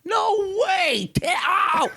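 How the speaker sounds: high startled yelp; surprised. Real, not acted. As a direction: yelp it out in shock. Shins the microphone.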